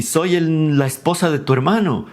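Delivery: mildly dramatic objection; indignant sister-in-law. Acted. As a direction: play the scandalized in-law. Acted shocked reply to lover.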